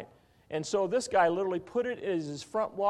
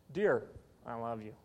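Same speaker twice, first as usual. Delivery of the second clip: soft tender inflection; 7 semitones lower, 5 dB quieter than usual. Shown as a demonstration. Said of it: "What's the difference?".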